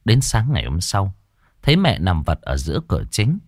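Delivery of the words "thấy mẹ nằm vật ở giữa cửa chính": ordinary delivery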